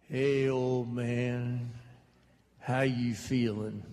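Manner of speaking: slow, lazy Southern redneck greeting; a Southern redneck, drawled out slowly. Retold or imitated. Redneck brother-in-law drawling a greeting at dying father. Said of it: "as redneck as they come".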